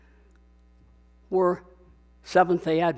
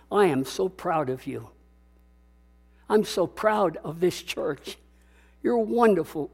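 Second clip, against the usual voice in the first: tender praise; 4 dB quieter than usual. Shown as a demonstration. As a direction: say it softly as a pastor to his flock. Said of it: "I have a habit ... of telling people".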